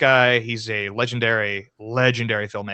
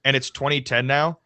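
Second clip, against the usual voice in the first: mock incredulous rant; 3 dB louder than usual. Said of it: "And I was like".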